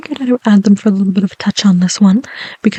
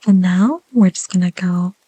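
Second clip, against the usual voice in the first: whisper. Real, not acted. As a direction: breathe the words gently. ASMR whisper.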